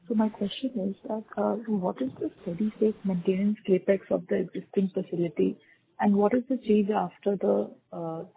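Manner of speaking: too quiet to hear. Real, not acted. Analyst asking about maintenance capex, too quietly. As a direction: ask it quietly, barely carrying down the line. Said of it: "can you speak up a little bit".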